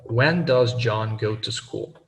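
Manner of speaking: slow, with When said firmly; stress on when. Shown as a demonstration. Teacher models stress on the question word When. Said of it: "emphasize the interrogative word".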